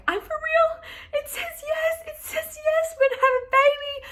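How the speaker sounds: very high, crying pleas; bawling. Retold or imitated. Wife convincing husband the test says yes, bawling high. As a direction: sob it out so he believes you. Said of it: "I was bawling".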